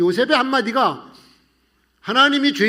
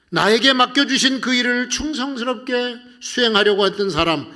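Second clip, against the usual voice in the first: ordinary talk, nothing marked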